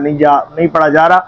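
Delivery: fast, hurried delivery of نہیں پڑھا جا رہا; rushed recitation. Shown as a demonstration. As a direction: gabble it like someone racing through prayers. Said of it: "یہ تیزی کے ساتھ پڑھ رہا ہے".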